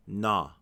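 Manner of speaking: "na" said alone as a strong, open NAH; stressed syllable alone. Shown as a demonstration. Teacher breaking the word into syllables, stressed "na". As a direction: sound out only the stressed first syllable "na". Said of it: "The first syllable, the stressed syllable".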